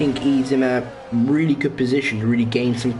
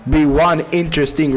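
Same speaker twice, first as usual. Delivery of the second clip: voice crack; 4 dB louder than usual. Real, not acted. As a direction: voice cracking mid-word. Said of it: "If, if I don't have another voice crack".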